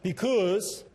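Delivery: BECAUSE punched loud and high; first-word emphasis. Shown as a demonstration. Speaker showing predictable emphasis, exaggerated stress on BECAUSE. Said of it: "Some put the emphasis on the first word".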